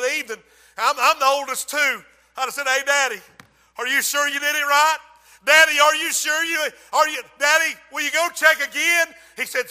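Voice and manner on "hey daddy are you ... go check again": put-on anxious child. Anxious son pesters father.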